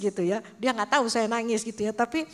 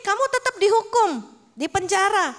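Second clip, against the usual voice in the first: higher, louder mock verdict of a stern king; 10 semitones higher, 7 dB louder than usual. A king sentencing his servant to prison, stern and loud. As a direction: hand down the sentence like a stern ruler.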